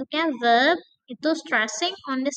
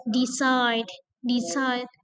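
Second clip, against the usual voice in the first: Decide, CIDE stressed; slower than usual. Shown as a demonstration. Teacher drilling verb stress on decide. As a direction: hit CIDE. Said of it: "stress on the second syllable".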